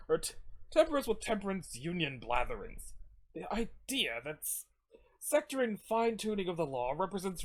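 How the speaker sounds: lightly voiced speechifying scold; moralizing character's tirade. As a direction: deliver a lofty, reproachful lecture.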